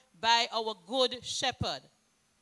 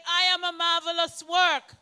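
congregation repeats; 3 semitones higher, 5 dB louder than usual. Real, not acted.

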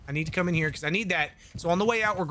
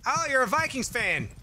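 imitated excited fan; 7 semitones higher than usual. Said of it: "just because he's like".

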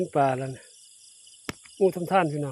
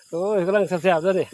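ดีใจ; 4 semitones higher, 6 dB louder than usual. Real, not acted. Delighted by the catch.

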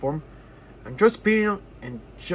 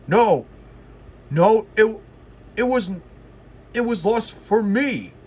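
loud, flustered denial; proud engine answering crossly when teased; 4 semitones higher, 4 dB louder than usual. A narrator's reading. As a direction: snap back, embarrassed. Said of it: "he answered crossly".

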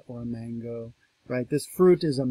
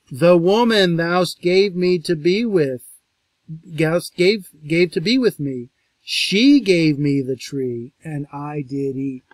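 higher, louder, slow reading; emphatic scripture reading; 3 semitones higher, 9 dB louder than usual. Acted. Lecturer reading the man's excuse, emphatic. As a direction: lean into the excuse.

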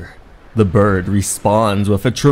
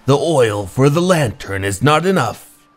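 put-on old keeper snapping orders, a higher pitch on the insult; scolding keeper; 4 semitones higher than usual. Old keeper scolding the lad over chores, cranky and raised.

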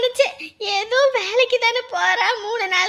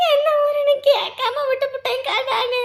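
tearful. Acted. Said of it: "இப்ப எதுக்குடி இப்படி அழுதுகிட்டு இருக்கிற".

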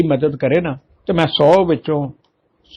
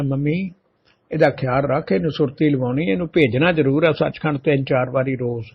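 gentle advice; 4 dB quieter than usual. Retold or imitated. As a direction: talk to the mother lovingly, softer. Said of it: "mummy ਨੂੰ ਪਿਆਰ ਨਾਲ ਸਮਝਾ ਦਿੰਦਾ". (ਪਿਆਰ ਨਾਲ ਨਰਮ ਆਵਾਜ਼ ਵਿੱਚ ਸਮਝਾਉਣਾ)

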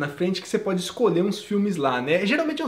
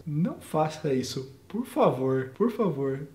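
soft, slow, lower plea; quiet plea; 6 semitones lower, 6 dB quieter, slower than usual. Real, not acted. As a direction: beg them gently to stop. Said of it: "pleading to flight attendants". (pedido baixo e lento)

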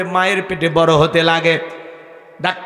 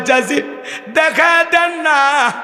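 wailing plea; slower than usual. Acted. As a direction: beg through sobs to see the grave. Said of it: "ছেলেটা হাউমাউ করে কাঁদে আর বলে".

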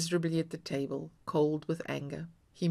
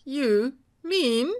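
fond; 8 semitones higher, 8 dB louder than usual. A narrator's reading. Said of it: "he said fondly".

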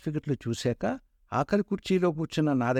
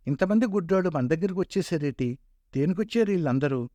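lightly voiced eastern Telugu dialect, jeering; mild mocking peon in eastern Andhra dialect; a hint of eastern Telugu slang, sneering; 4 semitones higher than usual. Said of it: "తూర్పు యాసలో హేళనగా".

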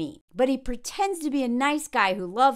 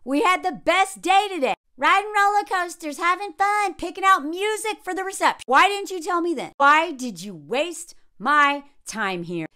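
exasperated complaint; 2 semitones higher than usual. Retold or imitated. Partner confronting her man over a wasted day, exasperated. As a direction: voice a hurt partner's mounting grievance.

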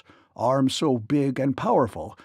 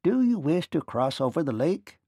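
tiny ferryman; 2 semitones higher than usual. A narrator's reading. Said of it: "turned to Dorothy and asked".

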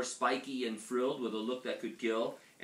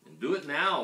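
firm motherly order, loud and raised; giving an order; 4 semitones higher, 6 dB louder than usual. A narrator's reading. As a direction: order the child to act. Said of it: "ordered Mama".

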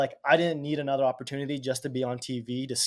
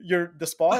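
amazed disbelief; 6 semitones higher, 6 dB louder than usual. Retold or imitated. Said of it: "And he's like".

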